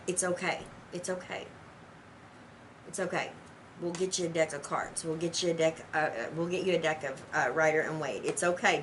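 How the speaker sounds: calm them down gently; reassuring. Real, not acted. Tarot teacher soothing an overwhelmed viewer, soft reassurance.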